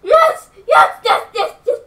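high, loud laughing yes, yes; real joyful laughing shout; laughing cheer. Real, not acted. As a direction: cheer in delight.

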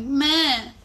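made-up nonsense word; short "meh". Shown as a demonstration. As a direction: blurt out a silly "meh".

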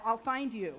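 light laugh through the words; warm, amused threat; playful laughing promise. Shown as a demonstration. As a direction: tease it with a chuckle. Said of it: "And I said then, and I'll say now".

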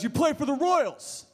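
a lightly voiced stranger, drawn out; slow stranger voice. Comic telling a crowd about an autograph mix-up, lightly voiced fan. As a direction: play the confused fan, slow and certain.

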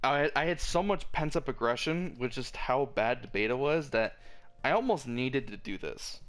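cracking voice mid-rant. Real, not acted. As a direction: let the voice crack and break. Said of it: "I'm voice cracking a lot".

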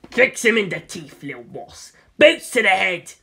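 a lightly voiced alien adviser urging violence; alien advisor. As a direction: coach him coolly on the attack.

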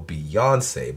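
the name with the O stressed, falling. Shown as a demonstration. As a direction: say the name hitting the O. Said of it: "I always thought it was with the accent on the O".

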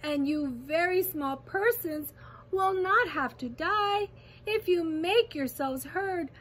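high, loud impassioned encouragement; rally them with urgent conviction; calling out. A narrator's reading. Captured elephant calling encouragement to the mayor, calling out. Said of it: "managed to call to the mayor".

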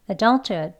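adulthood quick with the H nearly gone; fast conversational. Shown as a demonstration. Teacher showing learners the casual quick form. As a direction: clip adulthood fast, barely breathe the H. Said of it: "빨리 발음을 하게 되면".

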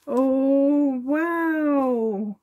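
real catch in the throat opening a gift; emotional wow on seeing the present; overwhelmed wow. Real, not acted.

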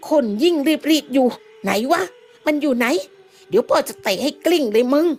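angry cursing. Acted. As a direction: swear at whoever knocked you down. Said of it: "ด่าออกมาด้วยความโมโห". (ด่าด้วยความโมโห)

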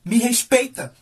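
lightly voiced firm reproach; stern mother. Mother facing her crying son, stern demand for respect. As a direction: imitate a mother putting her child in place. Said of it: "Minha mãe olhou no fundo dos meus olhos".

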